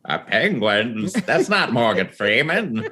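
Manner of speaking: slow, badly faked celebrity impression; drawn-out failed attempt at a famous voice; Morgan Freeman. Comedian called upon to do it in public, slow botched impression. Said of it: "I just nailed Morgan Freeman".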